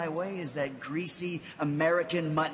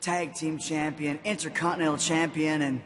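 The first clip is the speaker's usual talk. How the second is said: slow, drawn-out bragging list; slow boastful; slower than usual. Real, not acted. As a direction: savor each title slowly.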